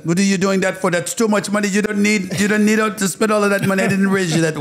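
high, loud, laughing mother voice; impersonating his mother. Retold or imitated. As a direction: do his mom fussing in disbelief. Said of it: "because you do a great impersonation".

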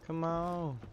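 will it to work, then groan; urgent cheering. Real, not acted. Close round lost.

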